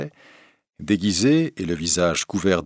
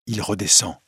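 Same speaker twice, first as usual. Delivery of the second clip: a bit louder. Acted. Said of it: "un peu plus fort".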